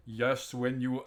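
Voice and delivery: lightly attempted German accent; Arnold German accent. Shown as a demonstration. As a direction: try a fake German accent, then give up. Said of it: "like Arnold".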